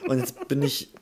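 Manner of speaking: rough hungover voice; boozy voice. Real, not acted. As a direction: sound worn out after a night of drinking. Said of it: "Schon wieder eine versoffene Stimme".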